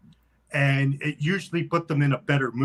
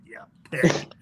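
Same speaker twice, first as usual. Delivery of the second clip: put-on raspy old woman. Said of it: "your voice is deeper and more raspy than mine".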